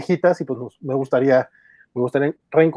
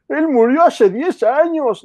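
laughing; 11 semitones higher, 3 dB louder, much slower than usual. Real, not acted. Laughing mid-correction.

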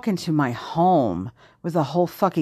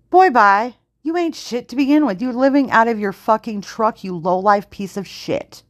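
high-pitched, indignant dismissal; scornful telling-off; 5 semitones higher than usual. Real, not acted. Telling off a cheating ex, scornful and indignant. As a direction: tear into them with open contempt. Tells off the absent ex.

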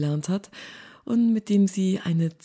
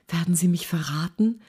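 whispered; 2 semitones higher than usual. Acted. Nelly whispers to Featherston, fearing betrayal, in a whisper. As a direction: whisper it so nobody hears. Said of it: "flüsterte sie".

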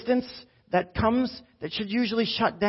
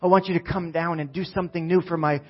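prayer. Acted. Leads a prayer over the church.

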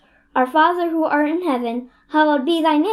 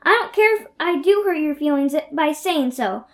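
angry crying. Acted. Anne's tantrum at Missus Lynde.

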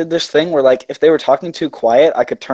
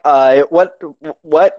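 halting, louder confused what; baffled; 4 dB louder, much slower than usual. Retold or imitated. Worker straining to hear mumbler, baffled halting query. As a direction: strain to understand, repeating the question.

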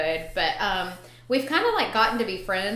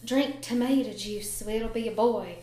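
imitated Southern grandma; lightly mimicked Southern accent; real Southern accent. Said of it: "like, real Southern accent".

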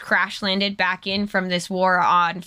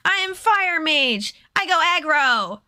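higher, blunt dumb-brute voice; caveman parody; 5 semitones higher than usual. Pretend. Mocking Chandra as a brute fire mage, higher caveman voice. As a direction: play a simple-minded brute proud of it.

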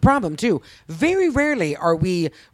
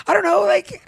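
sheepish retold question; 9 semitones higher than usual. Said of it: "And I was like".

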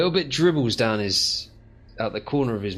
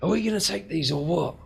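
much higher, exasperated creature voice; the other creatures, exasperated and much higher; incredulous creatures; 11 semitones higher than usual. Acted. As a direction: squawk at your mate in disbelief. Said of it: "looking at him going".

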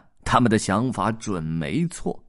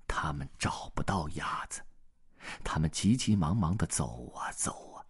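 hushed whispered narration; 3 semitones lower, 8 dB quieter than usual. A narrator's reading. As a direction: whisper as if the woods were listening. Searching the dark woods.

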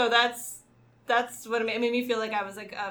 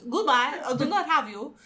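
put-on weird Polish accent; 3 semitones higher than usual. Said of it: "That's a weird accent".

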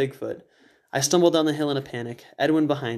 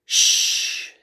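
sharp whispered shush; urgent shush; 4 dB louder than usual. Acted. Edwin hushing the narrator, whispered shush. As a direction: hush him urgently. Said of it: "Edwin's eyes were wide".

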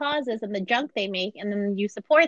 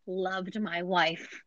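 slow, drawn-out mock sorrow; hammed-up heartbroken widower pleading innocence; imitating a man's slow tearful denial; mock grieving husband; much slower than usual. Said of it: "And he goes".

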